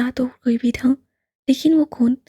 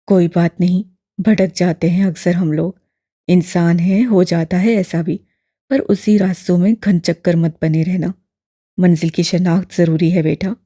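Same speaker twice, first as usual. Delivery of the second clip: put-on low, louder elderly man, gently probing; lower, fuller old gentleman; old imam voice; 6 semitones lower, 5 dB louder than usual. A narrator's reading. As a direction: voice the old man, kindly and curious. Old man consoles Duran.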